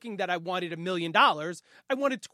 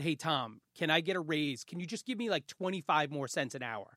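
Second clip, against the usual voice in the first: timid ask; 4 semitones lower, 8 dB quieter than usual. Retold or imitated. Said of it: "and I said".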